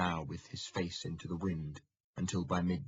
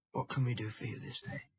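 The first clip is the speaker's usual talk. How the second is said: monk at the gate; 6 semitones higher, faster than usual. Acted. Monk speaking through gate hatch.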